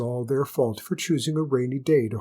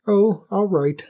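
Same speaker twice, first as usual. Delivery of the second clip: hare voice; 7 semitones higher, 6 dB louder than usual. Acted. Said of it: "said the hare".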